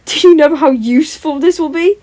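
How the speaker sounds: put-on high, bright and bubbling over like a kid; childish giggly delight; giggly childlike excitement. A narrator's reading. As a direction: squeal it out like a child with a new toy. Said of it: "giggling like a little child".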